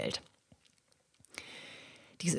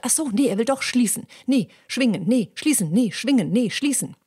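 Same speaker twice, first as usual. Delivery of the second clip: dithering vocal cords; 4 semitones higher than usual. Retold or imitated. Vocal cords flipping back and forth.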